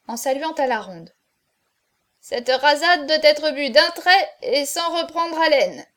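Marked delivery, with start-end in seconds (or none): 2.2-5.8 high, loud challenge to the drinkers; raised, ringing announcement; proclaimed toast. A narrator's reading. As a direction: proclaim the drinking rule to the room. Hunchback announces next toast to company.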